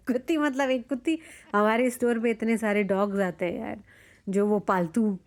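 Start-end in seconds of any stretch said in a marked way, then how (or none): 0.0-1.2 laughing it off, higher. Shown as a demonstration. Vlogger joking to viewers that it's no swear word, laughing. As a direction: giggle then say कुत्ती मतलब एक कुत्ती lightly. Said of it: "technically तो ये गाली नहीं हुई।".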